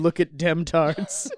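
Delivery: mock farmer call-out. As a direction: drawl it out like a farmer. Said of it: "just some farmer with a finger going".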